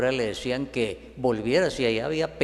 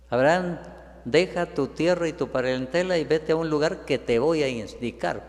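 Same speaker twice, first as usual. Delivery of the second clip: higher and louder divine order; commanding God; 4 semitones higher, 3 dB louder than usual. Acted. God orders Abraham to leave home, commanding. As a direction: call out a command from on high. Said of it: "Él únicamente da órdenes".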